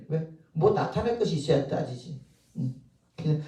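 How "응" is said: usual speaking voice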